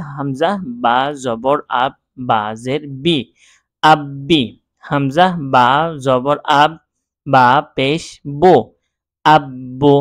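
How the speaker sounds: measured spelling drill with doubled b in আব্বি and আব্বো; letters and vowel names first, then held আব্বি, আব্বো. Shown as a demonstration. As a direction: chant হামজা, বা, জবর in pieces, then join each syllable. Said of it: "ঠিক একইভাবে এখানেও এইভাবে হবে".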